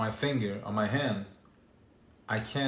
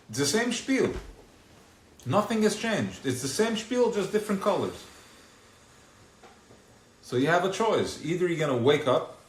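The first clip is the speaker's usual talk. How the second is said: higher, louder preaching at full force; fiery preaching; 7 semitones higher, 7 dB louder than usual. Acted. Preacher warning the listeners to wake up, at full force. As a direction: drive the warning home from the pulpit.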